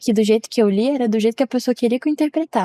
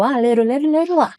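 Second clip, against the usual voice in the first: breezy singsong; 4 semitones higher than usual. Retold or imitated. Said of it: "eu mandei num tom na minha cabeça".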